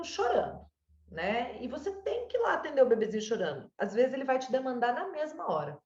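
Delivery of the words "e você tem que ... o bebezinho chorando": ordinary talk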